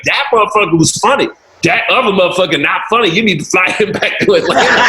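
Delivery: lightly voiced church lady. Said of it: "She's like".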